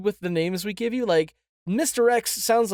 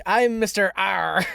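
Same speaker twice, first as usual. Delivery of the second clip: pirate voice. Pretend. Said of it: "start introducing yourself".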